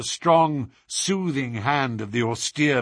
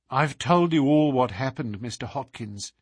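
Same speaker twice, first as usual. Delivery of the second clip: weary. Acted. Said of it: "she said wearily".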